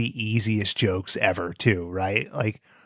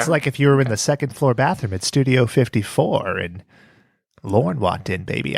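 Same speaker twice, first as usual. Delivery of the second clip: Dennis Miller. Acted. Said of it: "That's not a good Dennis Miller either".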